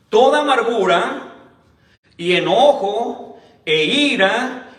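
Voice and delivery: slow, weighty reading of the verses; scripture reading. Acted. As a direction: lay each phrase down slowly like scripture. Reads Bible verses slowly.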